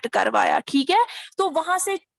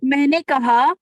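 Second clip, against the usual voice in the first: ऊँची आवाज़ में; 2 semitones higher, 8 dB louder than usual. Real, not acted. खराब लाइन पर ज़ोर से बोलना.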